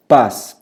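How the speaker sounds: paz said alone and loud; intense stressed monosyllable. Shown as a demonstration. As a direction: punch paz as one strong syllable. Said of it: "Pronunciado com muita intensidade".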